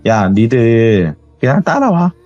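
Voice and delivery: slow, sneering command. Retold or imitated. Possessed boy telling the group to follow, slow and sneering. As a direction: drag it out with contempt. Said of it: "비웃는 식으로".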